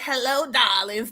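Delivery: slow, soft breathy "hello, darlings"; a mock sultry purr; sultry diva voice. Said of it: "trying to cover up that Adam's apple".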